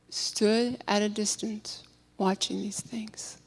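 fading to a whisper; hushed narration. A narrator's reading. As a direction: let the line fall into a whisper.

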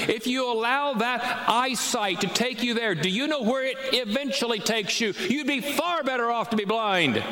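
high, urgent preacher's plea; impassioned preaching. Acted. Preacher warning Randy about sin, impassioned high plea. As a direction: press the warning home from the pulpit.

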